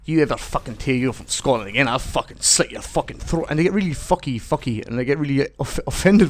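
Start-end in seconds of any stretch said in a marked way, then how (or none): 0.1-3.5 put-on angry Scottish accent. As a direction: put on an angry Scot making threats. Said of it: "I can put on an okay Scottish accent".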